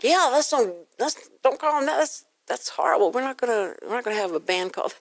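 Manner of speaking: a touch of scandalized protest; mock outraged objection. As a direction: imitate upset community members scolding. Asian community objecting, retold.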